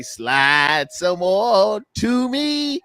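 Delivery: slow, creaky singsong line; lightly imitating Nipsey Russell's slow creaky line; creaky Tin Man. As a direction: stretch it out like a rusty Tin Man. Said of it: "remember Nipsey Russell in The Wiz".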